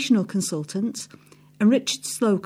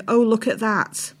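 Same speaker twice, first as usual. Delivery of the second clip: deadpan; slower than usual. Retold or imitated. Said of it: "he deadpans".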